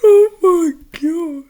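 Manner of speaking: high, loud and slow, laughing disbelief. Real, not acted. Reader reacts to Blossom's roast, laughing in disbelief. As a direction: gasp it out through laughter.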